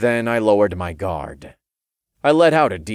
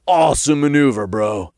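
loud, higher, quick cheer; excited imp; 6 semitones higher, 6 dB louder than usual. A narrator's reading. Imp praises his bro's move, excited. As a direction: hype up your buddy.

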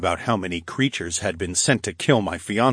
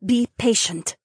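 Aaliyah; 4 dB louder than usual. Acted. Aaliyah defending Evan to Duchess.

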